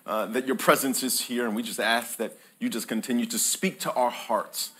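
hushed closing prayer to the Father. Real, not acted. Opening prayer.

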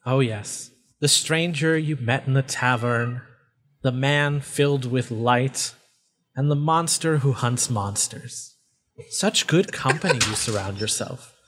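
lightly voiced, measured taunt; mocking faceless voice. Voice taunts Wiz about friends, mocking. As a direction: needle them about their company.

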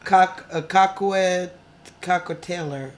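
halting "cockwe-" then "cocktailor", slow; fumbling French. Real, not acted. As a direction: sound out "cocktailor" hesitantly. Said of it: "I'm not even saying it correctly".

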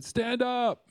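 high, loud shouted command; big shout, pitched far above normal talk; retold yell. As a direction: yell the order across the water. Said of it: "he just yelled at me".

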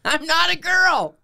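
very high, slow falsetto, a mock girl voice; falsetto protest. Caller mocking his own high voice to the agent, in a high falsetto. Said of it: "And I went".

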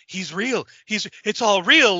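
freaking out. Acted. Freaked-out man being snapped out of it, acted panic. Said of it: "he's freaking out".

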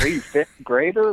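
put-on slow question with a Russian accent. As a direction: slip into a Russian accent, drawn out. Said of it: "I said that with a Russian accent".

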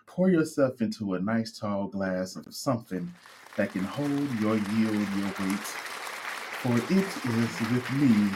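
solemn, hushed prayer voice; mock prayer. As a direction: pray to the bottle like a preacher. Mock prayer to vodka bottle.

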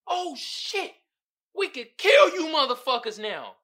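players realizing they can kill, high excited shout; excited realization. Retold or imitated. Players finding out killing is allowed, excited shout. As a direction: exclaim it high and loud, drawing on sudden discovery.

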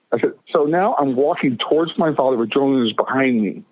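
usual speaking voice

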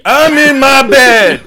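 laughing. Real, not acted. Mocking first person.

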